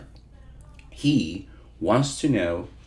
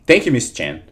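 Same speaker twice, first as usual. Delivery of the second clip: customer service voice; 3 semitones higher, 7 dB louder than usual. Shown as a demonstration. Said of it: "so here we go".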